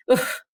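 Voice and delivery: short voiceless puff, mimicking a dismissive giggle; imitated scoffing giggle. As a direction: puff out a mock little laugh. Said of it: "a giggle, a bit of a".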